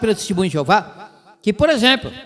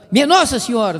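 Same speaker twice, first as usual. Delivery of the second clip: 1 mock exclamation; 4 semitones higher than usual. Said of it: "mas fala".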